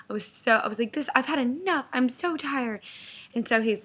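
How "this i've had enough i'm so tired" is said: raised pitch, exasperated; retold fed-up anger. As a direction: act out being at the end of your patience. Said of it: "I was, like, mad at this point".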